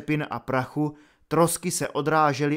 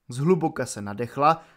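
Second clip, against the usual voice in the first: ordinary delivery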